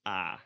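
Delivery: "A" drawn out, made further forward in the mouth; tense front vowel. Shown as a demonstration. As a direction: hold "A" longer, toward the front of the mouth. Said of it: "and is a bit longer".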